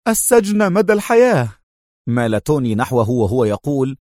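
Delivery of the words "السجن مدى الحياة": jittery high outburst; nervously. A narrator's reading. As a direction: blurt it out tense. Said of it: "قال جونز في عصبية".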